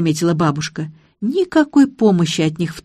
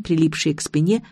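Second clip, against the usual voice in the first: ordinary delivery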